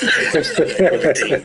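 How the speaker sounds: dragged out in mock slow motion. Slowing down as the dealer reveals his card. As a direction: stretch the word like time slowed down. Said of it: "everybody was in slow motion".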